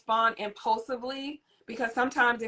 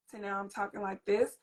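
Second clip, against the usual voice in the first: softer, hushed soothing tone; calm voice; 2 semitones lower, 6 dB quieter than usual. Shown as a demonstration. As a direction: talk down gently to calm a child. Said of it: "you see how I changed my voice tone".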